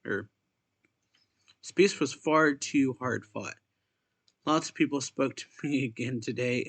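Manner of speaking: measured, lightly lifted reading voice; story read-aloud. Acted. Player reading a game character's diary to viewers, read-aloud voice. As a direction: read the written entry out clearly.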